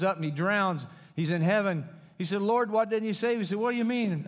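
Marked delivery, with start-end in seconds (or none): 2.4-3.4 complaining man. Acted. Drowned man complaining to God. 3.6-4.3 mock surprised God.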